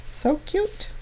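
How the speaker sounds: high squeal of delight; gushing. Real, not acted. Crafter delighted with her finished card, high gushing squeal.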